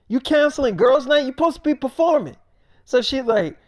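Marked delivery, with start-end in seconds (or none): 0.1-2.4 mock shocked friend.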